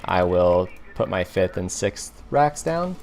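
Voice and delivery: slow, ending on a rising question tune; questioning rise. Real, not acted. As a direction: let "down" lift up like a question. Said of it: "Don't know why I said that like a question".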